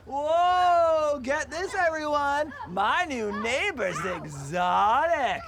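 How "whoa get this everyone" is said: higher, amazed call to everyone; excited announcement. Acted. Neighbour announcing the exotic newcomer to everyone, excited. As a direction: crow it out to the whole street.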